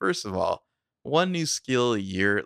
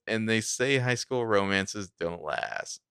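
deadpan; slower than usual. Retold or imitated. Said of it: "he's so deadpan".

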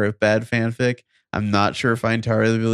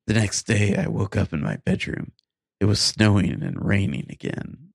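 deliberate, measured read-aloud; story narration. Acted. Podcast host reads bad fan fiction to co-host, story narration. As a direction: read each sentence out with careful pauses.

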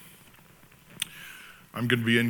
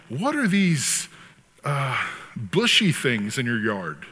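模仿律师慢问; slower than usual. Retold or imitated. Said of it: "he's interviewing this guy".

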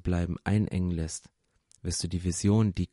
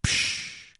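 drawn-out "psch" shush; hushing; 4 dB quieter than usual. Acted. People silence a would-be leader, hushing. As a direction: cut them off with a shush.

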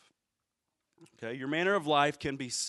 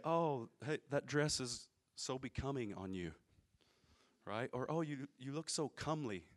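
lightly voiced prim period-drama lady, softer; a hint of a Pride and Prejudice admirer; mock old-fashioned compliment; 5 dB quieter than usual. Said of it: "we don't speak like this in Southwest Missouri".

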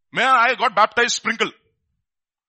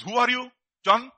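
loud, high, hammering demands; mock Pharisee interrogation; 6 semitones higher, 8 dB louder than usual. Pharisees' envoys interrogating John, loud and accusing. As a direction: grill him like a suspicious official. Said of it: "The people who came, sent from Pharisees".

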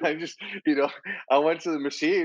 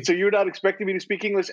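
higher-pitched disbelief; incredulous question; 7 semitones higher than usual. Retold or imitated. Latino man answering people's assumption, incredulous. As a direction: question it, mock baffled. Acts out baffled reply to assumption.

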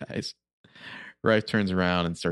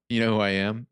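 mocking echo; 3 semitones higher, 4 dB louder than usual. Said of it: "Yeah, I know".

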